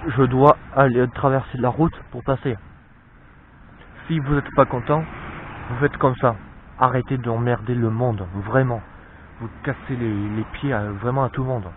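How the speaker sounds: loud, fed-up telling off; angry rant. Real, not acted. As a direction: blast the people who honk. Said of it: "je suis vraiment en colère".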